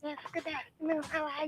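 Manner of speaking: very soft, barely audible greeting; speaking quietly, as if to someone close; low voice. Real, not acted. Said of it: "your voice sound low".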